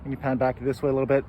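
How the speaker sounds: talking through a face mask; muffled by face mask. Real, not acted. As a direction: speak muffled behind a cloth mask. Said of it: "I am wearing a face mask, so I'm sorry if the audio is muffled".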